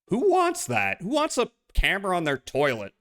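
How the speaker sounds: high disbelieving squeal; can't believe anyone wants that; incredulous. Real, not acted. Incredulous at toilet camera.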